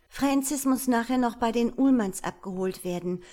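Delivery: put-on a nervous young mother listing chores; young wife's voice.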